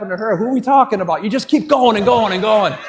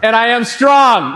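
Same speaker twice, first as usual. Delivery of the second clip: raised voice, firm chant; a little louder; 3 semitones higher, 4 dB louder than usual. Shown as a demonstration. Speaker leading the crowd's chant, a little louder. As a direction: lift the chant a bit for the crowd. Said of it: "Little louder".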